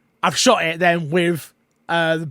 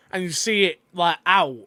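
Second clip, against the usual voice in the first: mouth full. Real, not acted. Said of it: "Sorry, I'm eating my dinner at the same time".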